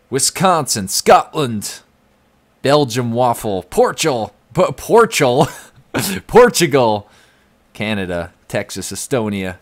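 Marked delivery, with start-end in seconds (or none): 0.1-7.1 excited calling out. Real, not acted. Reading locations, excited.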